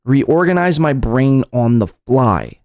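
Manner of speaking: slow, drawn-out quoting at normal pitch; slow repetition. Retold or imitated. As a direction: draw the quoted words out slowly. Repeats the mocked phrase slowly.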